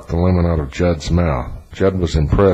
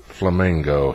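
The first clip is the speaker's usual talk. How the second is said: a flat, drained answer to the cab driver; 4 dB quieter than usual. Acted. Defeated Judd tells the cab driver his hotel, flatly. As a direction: lifeless one word reply. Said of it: "he said in a flat voice".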